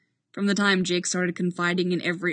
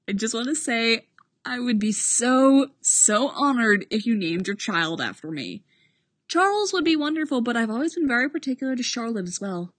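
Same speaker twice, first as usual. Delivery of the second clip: high, effusive, overjoyed voice; gushing sentimental friend; 5 semitones higher, 3 dB louder than usual. Acted. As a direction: gush like a proud friend. Boyle asks about baby names.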